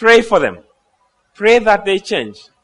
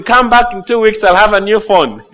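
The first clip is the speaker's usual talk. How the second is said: mock calling out; 3 semitones higher, 5 dB louder than usual. Preacher jokes about inviting the phone thief back, mock calling out. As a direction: call it out loudly for a laugh.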